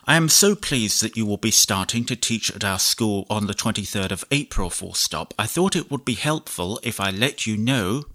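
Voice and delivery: measured dictation, punctuation spoken aloud; slow dictation with punctuation. Shown as a demonstration. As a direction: dictate to the computer, clear and even. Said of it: "demonstrate how you can dictate much longer chunks".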